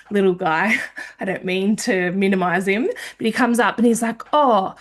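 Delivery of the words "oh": mumbled reading. Retold or imitated. Man puzzling out her sign, mumbled in a whisper. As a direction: voice dropping to a whisper.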